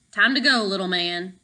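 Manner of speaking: a big guard's deep voice; deep throaty voice. Acted. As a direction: rumble it low from the throat. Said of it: "said Tank in a deep, throaty voice".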